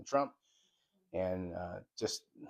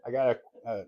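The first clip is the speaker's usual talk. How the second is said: slight lisp around a retainer; 3 dB louder than usual. Real, not acted. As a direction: talk through a dental retainer. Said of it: "I sound like I have a lisp".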